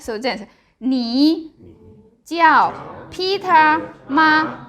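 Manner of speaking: slow model of 你叫Peter吗, drawn out; practicing tones. Shown as a demonstration. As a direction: say 你叫Peter吗 slowly for learners. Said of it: "speak Chinese".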